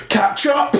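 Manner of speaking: McCoy's yell, high and hammy; mock shouting. Imitating McCoy yelling.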